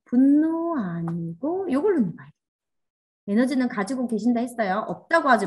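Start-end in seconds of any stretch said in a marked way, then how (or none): 0.0-2.3 slow self-talk. Shown as a demonstration. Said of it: "이제 들릴 거예요, 스스로".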